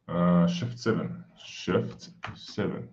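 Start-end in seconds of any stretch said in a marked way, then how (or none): 1.4-2.9 a puzzled whisper, slow; quiet slow whisper, reading a shortcut. Real, not acted. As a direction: whisper it slowly to yourself. Repeats shortcut to himself.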